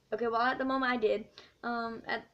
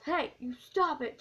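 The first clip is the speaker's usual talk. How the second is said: mock teacher yell; 5 semitones higher than usual. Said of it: "and he yells".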